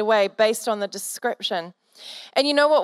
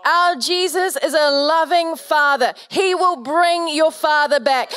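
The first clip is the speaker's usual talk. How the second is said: emotional reassurance; 3 semitones higher than usual. Real, not acted. Comforting friend, voice catching.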